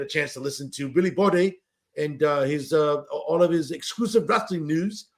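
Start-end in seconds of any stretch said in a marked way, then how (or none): 3.1-5.1 badly faked English accent. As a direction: attempt an English accent, wobbling off target. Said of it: "worst fucking English accent impersonation".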